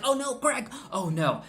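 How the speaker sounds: high pitched oh no; real shock at the scene; dismayed. Real, not acted. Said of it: "dismay at a shooting, rising pitch".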